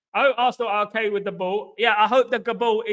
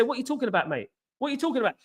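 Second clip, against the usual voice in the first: higher-pitched mock bewilderment; retold baffled reply; 5 semitones higher, 4 dB quieter, much faster than usual. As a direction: question him, pitched up in disbelief. Retells baffled reply to accuser.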